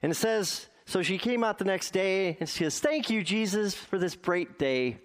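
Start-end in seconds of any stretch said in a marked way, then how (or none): 2.8-5.0 put-on high, sing-song old lady's thank you; mock old woman praising Jesus; old woman's thanks. Old woman's daily porch prayer.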